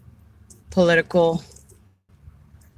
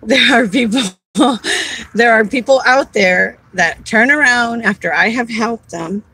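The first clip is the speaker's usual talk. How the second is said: crying while laughing. Real, not acted. Tearful, laughing, upset.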